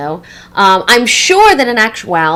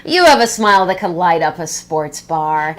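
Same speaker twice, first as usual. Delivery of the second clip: lower, drawn-out "oh", mock exasperation; lightly exasperated, in a lower pitch; indulgent eye-roll; 5 semitones lower than usual. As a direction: say it like a fond, weary boss. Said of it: "I usually just roll my eyes and say".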